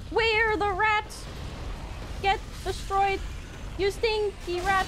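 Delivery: high, slow, loud taunting voice; mock villain voice. Streamer taunting a game rat, hammed-up high villain voice.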